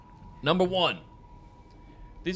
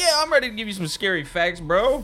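higher, louder bro hype; hyped up; 10 semitones higher, 9 dB louder than usual. Pretend. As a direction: pump it up for the bro. Playful hype reply.

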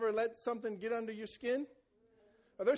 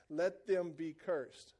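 grave curse; 5 semitones lower, 4 dB quieter, much slower than usual. Shown as a demonstration. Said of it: "I tried to give you the tone".

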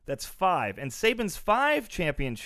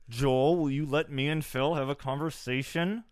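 words pushed through clenched teeth; through gritted teeth. Real, not acted. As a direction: speak without opening the jaw. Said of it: "If you do it through clenched teeth".

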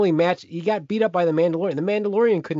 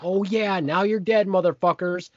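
gloating cheer; 5 semitones higher than usual. Retold or imitated. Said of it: "I was like".

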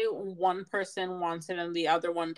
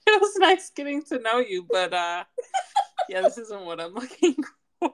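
higher, louder formal goodbye; polite brush-off; 5 semitones higher, 5 dB louder than usual. Pretend. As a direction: read out a polite rejection. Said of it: "Or just hit him with the".

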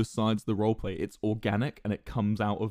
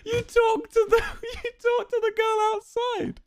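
much higher, squeaky words through laughter; helpless laughter; slower than usual. Retold or imitated. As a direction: wheeze it out, collapsing in laughter. Quoting her answer, helpless laughter.

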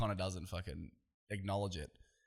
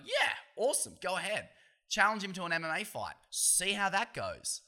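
mock cheering on; 8 semitones higher than usual. Imagined egging on of challenger.

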